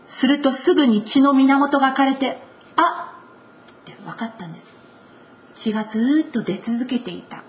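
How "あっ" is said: gasp of realization. Acted. Woman feels healing.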